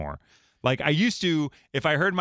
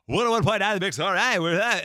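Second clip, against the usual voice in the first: weird announcer; 6 semitones higher than usual. Retold or imitated. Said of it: "I would do a weird announcer".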